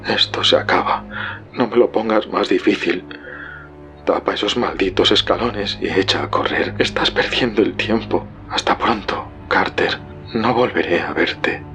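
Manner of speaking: faint, breathy farewell; fading half-whisper with long pauses; barely audible. A narrator's reading. Warren says goodbye to Carter, barely audible. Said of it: "la voz apenas perceptible de Warren".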